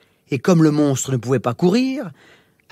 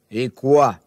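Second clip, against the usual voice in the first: lower monster voice; 4 semitones lower than usual. Acted. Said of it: "demanda le monstre".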